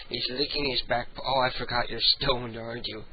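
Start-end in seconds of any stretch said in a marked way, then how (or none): none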